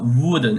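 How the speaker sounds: "wurden" said as stressed "würden"; emphasized U umlaut. Shown as a demonstration. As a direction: lean on the rounded vowel in "wurden". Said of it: "emphasis on the U umlaut".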